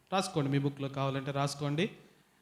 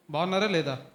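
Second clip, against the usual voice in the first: asking again, a touch louder; a bit louder. Real, not acted. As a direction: push the question a little louder to the crowd. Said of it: "గట్టిగా చెప్పండి అబ్బాయిలు". (కొంచెం గట్టిగా మళ్ళీ అడగడం)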